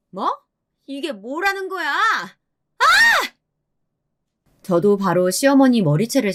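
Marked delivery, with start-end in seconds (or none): 0.1-2.8 high-pitched indignation ending in a cry; outraged mother-in-law. A narrator's reading. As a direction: sputter in high outrage, then yelp. Mother-in-law in hair-pulling fight.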